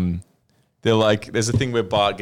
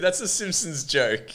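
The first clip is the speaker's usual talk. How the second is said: normal talking voice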